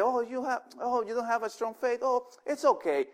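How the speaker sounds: mock soothing reassurance; mock coddling. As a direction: pat them on the head and let it slide. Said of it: "So Jesus never said".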